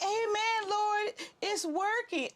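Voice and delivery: high, gasping thanks; relieved excited praise. Retold or imitated. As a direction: breathe out in relief.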